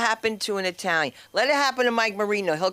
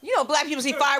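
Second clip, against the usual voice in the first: tag; 8 semitones higher, 3 dB louder than usual. Acted. Builds up to cries for help.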